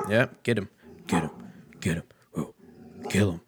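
cheering the dog on like a hype man; egging on the dog. Real, not acted. To his dog barking at the FedEx guy, hyped urging.

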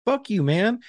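slow, high-pitched disbelief, not shouted; indignant outrage. Acted. Applicant reacting to the examiner's mind game, high indignant outrage.

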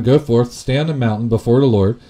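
loud, firm command; God's voice ringing out. Acted. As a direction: boom it out as God commanding. God's command in scripture reading.

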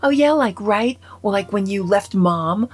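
imitating a resentful teen daughter; sarcastic daughter. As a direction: throw it back at Dad, mock-scornful. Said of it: "And she's like".

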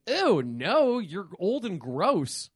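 hammed-up "ew", then slow, drawn-out rejection; mock disgust. Host acting husband turning down his wife, mock disgust. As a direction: recoil with playful revulsion.

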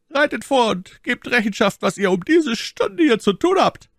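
high, loud command; officer's order. A narrator's reading. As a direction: order them forward.

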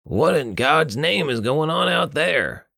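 high, drawn-out cry of alarm; acted alarm, pitched high; alarmed demand. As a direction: demand to know, voice swooping up. Alarmed question in narrated scene.

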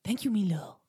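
short burst of a put-on character voice; Fergus. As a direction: answer the compliment in character. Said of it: "your Fergus is so good".

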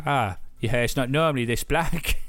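imitating a comedian's bad Cockney; bad Cockney accent. Retelling an impersonator's Harry Potter duet, mock Cockney accent. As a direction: put on a deliberately poor Cockney accent. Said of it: "like, a really bad Cockney accent".

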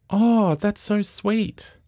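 high, slow, drawn-out cooing; hammed-up sugary squeal; imitated gushing. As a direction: coo adoringly like a smitten onlooker. Acting the passenger's adoring yell.

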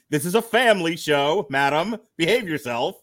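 tut-tut like a stuffy host; lightly voiced mock reprimand to the co-host; mock prim scolding.

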